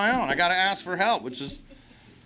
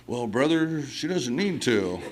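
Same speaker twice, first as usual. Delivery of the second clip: hippie guy; 4 semitones lower, slower than usual. Retold or imitated. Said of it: "that hippie guy was like".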